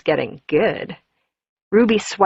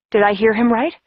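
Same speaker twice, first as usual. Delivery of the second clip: ordinary delivery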